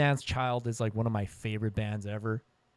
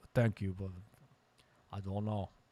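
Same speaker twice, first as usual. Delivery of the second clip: horrible, bad put-on Norwegian accent; 3 semitones lower, 8 dB quieter than usual. Retelling what a musician said when asked about live shows: horrible norwegian accent. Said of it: "That's a horrible Norwegian accent".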